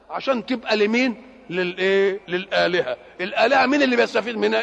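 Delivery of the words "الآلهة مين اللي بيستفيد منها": louder and fast, pressing the question; loud rhetorical challenge. Real, not acted. Preacher pressing the crowd with a loud fast question. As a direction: demand the answer quickly.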